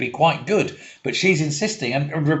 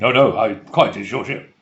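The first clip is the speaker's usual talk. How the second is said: put-on deep, low character voice; 4 semitones lower than usual. Acting out a movie scene between two characters, in a put-on low voice. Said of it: "Why are you talking with a low voice?".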